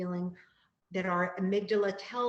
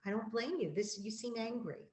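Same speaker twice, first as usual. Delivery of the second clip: gentle validating; 2 semitones higher, 5 dB quieter than usual. Shown as a demonstration. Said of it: "You can say".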